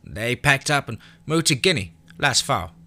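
put-on high rural kid explaining; a boy sharing his hiding place; high child's voice; country boy. A narrator's reading.

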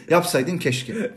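drawn out yapsaydın keşke, very slow; slow reproach. Shown as a demonstration. Host repeating the phrase to the audience, very slow. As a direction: stretch yapsaydın keşke to let the blame sink in. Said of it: "bu kelime neden olumsuz".

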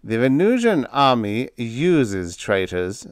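slow, deliberate dig, "traitors" set apart; pointed. A narrator's reading. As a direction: land "traitors" slowly and pointedly. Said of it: "said Thaxton pointedly".

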